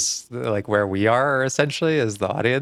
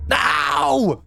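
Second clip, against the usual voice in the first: desperate shout. Acted. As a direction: yell no in terror. Lerv wird festgehalten.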